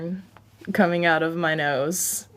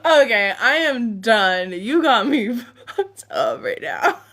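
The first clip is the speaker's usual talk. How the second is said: laughing; 4 semitones higher, 5 dB louder than usual. Real, not acted. Cracking up, loud.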